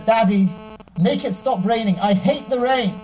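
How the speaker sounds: lightly voiced small child, slow and whiny; a hint of a little boy begging his daddy. Little son begging his father to stop the rain, lightly whiny.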